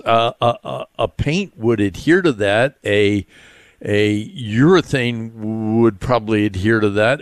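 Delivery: halting, stammering restarts. Real, not acted. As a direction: stammer while searching for words. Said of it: "I know I'm kinda stammering".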